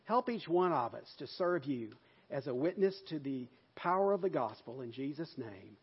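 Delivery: earnest pastor's prayer, steady and full; closing prayer. Acted. Pastor praying for his church in earnest prayer voice. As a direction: pray over the congregation with conviction.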